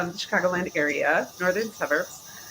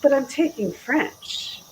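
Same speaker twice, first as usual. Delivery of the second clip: put-on stubborn teen protest; 5 semitones higher, slower than usual. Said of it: "And I said".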